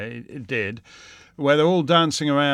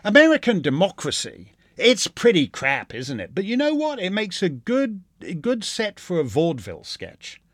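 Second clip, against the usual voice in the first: mock smug comedian; 4 semitones higher than usual. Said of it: "Colbert guys who think".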